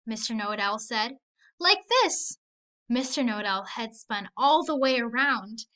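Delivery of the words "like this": owl demo. Acted. Owl shows the trick.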